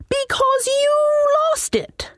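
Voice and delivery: high wizard voice sinking to a whisper on "lost it"; sly wizard. Acted. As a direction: let the accusation drop to a hiss. Wizard accuses demon.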